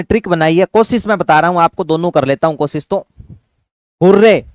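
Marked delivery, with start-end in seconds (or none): 4.0-4.4 cheer. Shown as a demonstration. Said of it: "हुर्रे पढ़ते ही आपको याद आ रहा है क्या?".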